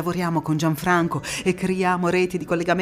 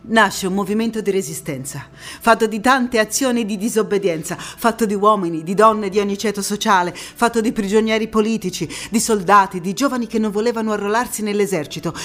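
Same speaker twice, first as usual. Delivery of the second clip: louder and higher, a stirring call to arms; rising passionate declamation; 5 semitones higher, 6 dB louder than usual. Acted. Narrator stirring the audience about the Resistance, impassioned and loud. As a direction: build the list of fighters like a rally cry. Rousing declamation over music.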